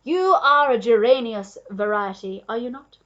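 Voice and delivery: loud, excited know-it-all duke; boastful exclamation at full voice; crying out. A narrator's reading. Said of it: "cried the Duke".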